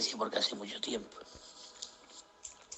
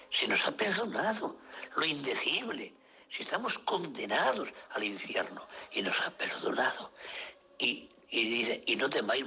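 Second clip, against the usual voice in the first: preaching. Acted. Preaching forgiveness to brothers.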